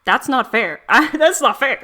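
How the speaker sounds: indignant protest. Real, not acted. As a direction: protest it loudly, half laughing. Protests the ending.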